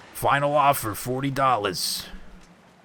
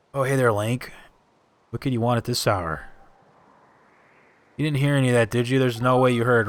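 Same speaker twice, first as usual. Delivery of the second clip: voiced game character.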